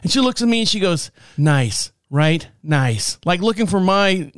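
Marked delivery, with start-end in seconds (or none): 1.4-3.2 imitated deadpan wife; dry, resigned understatement; deadpan, broken. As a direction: mimic a defeated wife, giving nothing. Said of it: "deadpan, like, so broken".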